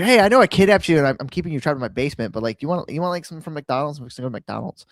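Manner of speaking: high, fast, chummy kidnapper; friendly kidnapper. Retold or imitated. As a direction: sell it like a nice creep.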